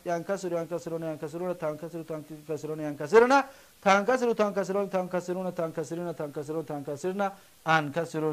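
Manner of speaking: even, unbroken run through ینکسر and its forms; rote conjugation recital. Shown as a demonstration. Teacher reciting present-tense forms for the class, rote recital.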